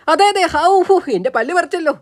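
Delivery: high, pained outburst; yelping in pain. Acted. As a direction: exclaim through the pain of a pulled tooth. Tooth just yanked out. (പല്ലുവേദനയിൽ ഉയർന്ന ശബ്ദത്തിൽ)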